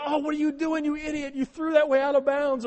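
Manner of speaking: high, loud exasperated yell at the TV; fan yelling. Retold or imitated. Fan yells at quarterback on TV, high exasperated yell. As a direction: scream at your quarterback like a frustrated fan.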